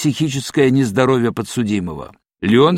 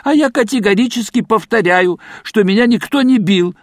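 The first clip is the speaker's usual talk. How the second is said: shouting; 7 semitones higher than usual. A narrator's reading. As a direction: yell the denial at him. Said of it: "снова закричал Гилёвич". (громкий крик)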